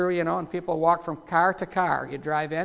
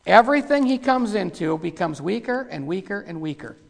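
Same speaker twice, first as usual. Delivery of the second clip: ordinary talk, nothing marked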